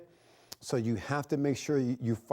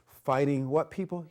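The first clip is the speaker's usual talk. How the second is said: rising call to the class; an instructor quizzing his class with a rising call; 3 semitones higher than usual. Shown as a demonstration. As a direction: toss the question to the students.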